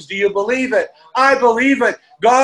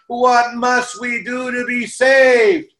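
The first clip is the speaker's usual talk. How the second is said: drawn-out crowd cry from the windows; imagined crowd yelling; 2 semitones higher, slower than usual. Pretend. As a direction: call it out like a crowd begging. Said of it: "and they yell out".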